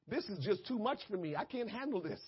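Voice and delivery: soft acted helplessness; quiet, awed surrender; overwhelmed, hushed. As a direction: pull right back, as if overcome. Acts out being overwhelmed by God.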